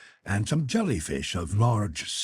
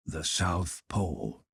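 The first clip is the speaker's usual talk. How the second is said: slow, softer and lower, full of gravity; solemn; 4 semitones lower, 5 dB quieter, slower than usual. A narrator's reading. Captain solemnly tells the narrator they've reached the pole, slow and hushed. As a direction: announce it quietly, like a sacred moment. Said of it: "Captain Nemo replied in a solemn voice".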